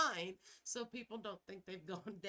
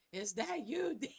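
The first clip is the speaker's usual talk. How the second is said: mock Zak Bagans scream; 3 semitones higher, 4 dB louder than usual. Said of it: "a screaming voice from Zak Bagans".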